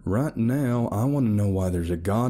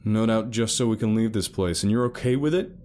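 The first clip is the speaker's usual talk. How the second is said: louder, heated accusing; angry rant; 7 semitones higher, 3 dB louder than usual. A narrator's reading. Alex ranting against Carol to Felton, angry.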